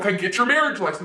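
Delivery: rude low-pitched yell.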